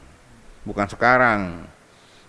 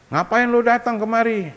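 mock angry wife; 3 semitones higher than usual. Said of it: "Istri yang marah".

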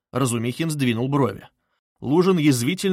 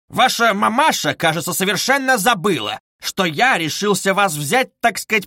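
higher, louder venom; out of control; 7 semitones higher, 4 dB louder than usual. A narrator's reading. Luzhin, no longer in control, insults Dunya, higher and louder. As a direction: spit the insult out. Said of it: "почти совсем не владея собою".

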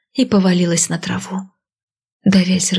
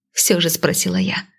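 plain reading voice

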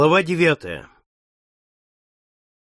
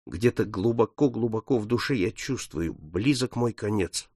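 sad foreboding; 3 semitones lower, 6 dB quieter than usual. Acted. Paul telling his friend he will die, sad. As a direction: confide it quietly, heavy with doom.

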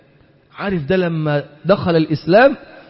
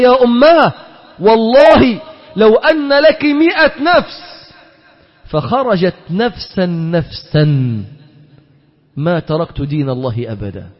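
son answering mother with tender firmness; tender resolve. Acted. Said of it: "للتودد والحنية والرحمة".

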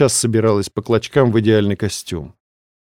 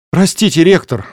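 raised call through a closed door; 7 semitones higher, 4 dB louder than usual. A narrator's reading. Girl calls to the rector behind the door, raised and urgent. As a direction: call out to the rector, louder and higher.

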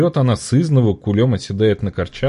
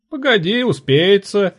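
shrieking trader; 12 semitones higher, slower than usual. A narrator's reading. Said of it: "кликушечьим тоном сказала товарка".

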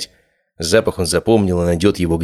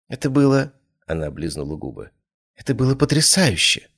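high, breathless thrilled voice; breathless rapture; 6 semitones higher than usual. A narrator's reading. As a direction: gasp it out in rapture. Breathless delight.

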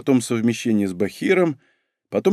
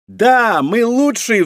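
put-on high, exultant girlish exclamation; triumphant cheer; 9 semitones higher, much slower than usual. A narrator's reading. Рейка throws up her hands, triumphant. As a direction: cheer the team's win, pitched way up. Рейка вскинула руки, ликует.

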